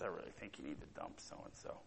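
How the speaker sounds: soft, low imitation of dad giving advice; quiet fatherly counsel, brisk; a hint of a gentle father; dad's advice. Dad voiced in retold story.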